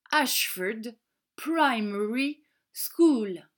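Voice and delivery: "Ashford Primary School" slowly in English; word by word, "Primary School" drawn out; English pronunciation. Shown as a demonstration. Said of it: "En anglais, on dit".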